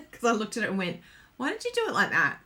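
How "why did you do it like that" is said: higher, quick self-questioning; mock questioning. Crafter mimicking her reaction to her own stamping, mock questioning. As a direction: imitate a puzzled query to yourself.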